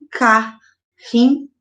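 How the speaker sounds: "carrinho" slowly broken as ca... rri... nho; split into syllables. Shown as a demonstration. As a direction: pause between each syllable of "carrinho". Teacher demonstrates syllable separation.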